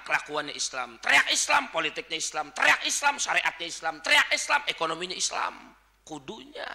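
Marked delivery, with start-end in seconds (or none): 1.0-1.7 raised, higher-pitched rallying cry; mock rallying yell; yelled slogan. 2.5-3.1 raised, higher-pitched rallying cry; mock rallying yell; yelled slogan. 4.0-4.6 raised, higher-pitched rallying cry; mock rallying yell; yelled slogan.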